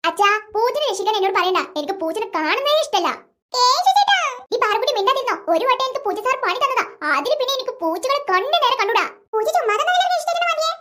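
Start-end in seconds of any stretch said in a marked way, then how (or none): 0.1-9.0 put-on lower, sulky boy voice refusing; grumpy boy. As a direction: grumble like a stubborn older brother. (മുഷിഞ്ഞ ആൺകുട്ടിയുടെ ശബ്ദം)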